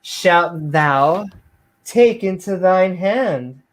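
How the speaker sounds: theatrical Bible reading; mock-biblical reading. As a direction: declaim it like hammed-up scripture. Mock King James reading.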